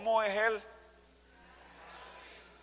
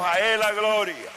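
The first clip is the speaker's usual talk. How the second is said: building praise cry; 4 semitones higher than usual. Acted. Preacher giving praise.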